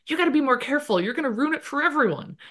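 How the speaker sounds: a hint of a goofy British accent, scolding. Roommate Stan warning Hal, mild goofy British accent. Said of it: "kind of a goofy British accent".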